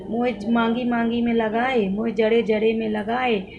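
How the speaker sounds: lightly voiced old mother-in-law in rural Awadhi dialect; a hint of the old lady's village Awadhi speech; mother-in-law in local dialect. Imitating her mother-in-law asking in Awadhi dialect to oil her hair. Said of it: "मैं इस तरह की language बोल रही हूँ".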